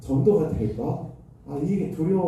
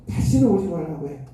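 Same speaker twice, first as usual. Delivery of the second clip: mild mock yell, louder; retold shout down the hall; 3 semitones higher, 4 dB louder than usual. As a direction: imitate a boss calling out an order as you leave. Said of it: "복도에 소리가 막 쩌렁쩌렁 울리는데요". (나가는 목사에게 외치는 고함을 흉내 낸 가벼운 외침)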